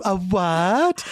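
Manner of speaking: a light, lightly feminine "A what?" poking fun; mock feminine voice. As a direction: tease him with a touch of a girly voice. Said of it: "putting on a little feminine".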